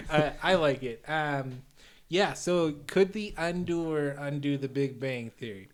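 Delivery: put-on light Chicago accent in character; villain with a mild Chicago accent. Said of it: "I'm doing the Undoer voice here".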